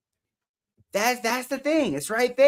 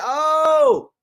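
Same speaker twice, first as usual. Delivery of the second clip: surprised; 7 semitones higher, 7 dB louder than usual. Real, not acted. Surprised at gift.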